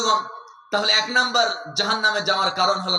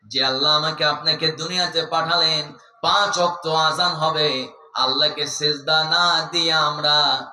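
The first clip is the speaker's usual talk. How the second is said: melodic sermon warning; 3 semitones lower than usual. Acted. Preacher warns the congregation of God's power, melodic chanting. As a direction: intone a warning, drawing out the endings.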